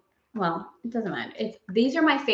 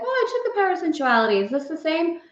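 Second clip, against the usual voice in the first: imitated viewer; 8 semitones higher, faster than usual. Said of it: "if you're like".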